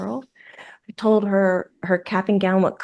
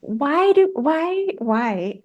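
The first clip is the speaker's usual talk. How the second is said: pitched-up tearful whine; high wailing cry; 6 semitones higher, much slower than usual. Retold or imitated. Medium after the call, wailing tearfully at the pressure. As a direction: cry out the why's high and pleading.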